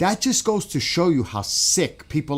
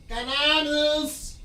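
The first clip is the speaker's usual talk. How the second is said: much higher, slow, stretched exclamation; excited cry; much slower than usual. Real, not acted. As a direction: call it out like a lucky find. Finds something while searching.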